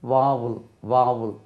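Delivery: வாவுல் drawn out as "VAA-vul"; வாவுல் in two falling syllables, like "vow-ul"; pronunciation model. Shown as a demonstration. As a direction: slowly model வாவுல் with a long open first vowel. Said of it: "உயிர் எழுத்துக்கு எப்படி?".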